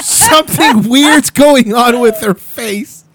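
laughing. Real, not acted. Repeating friend's line, laughing.

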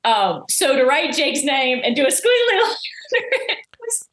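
breaking into laughter mid-sentence; laughing. Real, not acted. Recalling the secret vote to the host, laughing. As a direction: giggle through the squiggly part. Laughing at squiggly-line memory.

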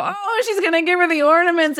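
high, laughing mock gasp of realization; excited realization. Podcaster recalls her own realization, excited and laughing. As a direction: pitch jumps up with a laugh as it dawns. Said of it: "I go".

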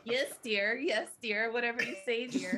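lightly voiced meek husband; a hint of a henpecked yes-man. Beta male vibe voiced.

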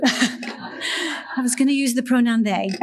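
slow, laughing through the line. Shown as a demonstration. Nudging the church to laugh, laughing. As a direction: chuckle while repeating the joke slowly. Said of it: "y'all have to laugh at that".

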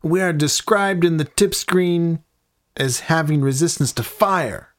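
lightly voiced griping hellion; demon voice. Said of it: "Hellions have been heard saying".

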